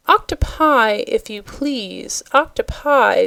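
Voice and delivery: ordinary delivery, nothing marked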